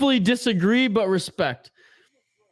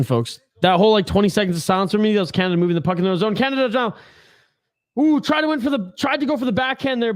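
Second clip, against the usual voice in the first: excited play-by-play. Acted. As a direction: ride the action on the blue line. Calls live play-by-play.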